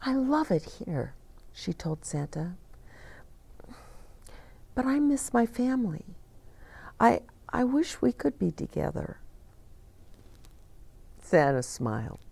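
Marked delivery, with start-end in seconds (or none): 0.0-9.2 high, quick little reindeer voice; young reindeer. Acted. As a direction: speak fast and high like a young fawn. Dasher tells Santa she misses family.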